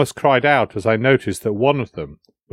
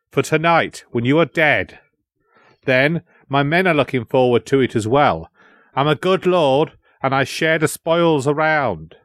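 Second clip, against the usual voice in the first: lightly acted gloating lord; mildly gloating threat, pitch lifted; leering villain; 3 semitones higher than usual. Captor boasting before his men, mildly leering.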